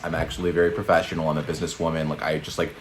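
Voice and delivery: a hint of a sober businesswoman; quietly imitating her plain voice; real voice imitation. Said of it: "she's like".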